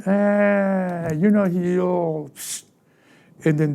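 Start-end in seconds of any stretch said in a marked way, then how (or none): 0.1-2.3 lightly voiced enemy with a drawn-out "ah"; a hint of the taunting enemy, slowing at the end. Enemy discourages a believer waiting on God, lightly taunting. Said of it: "this is where the enemy is like".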